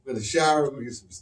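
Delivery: soft, polite morning murmur; quiet, prim and mild-mannered impression; white gene voice. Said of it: "White gene say".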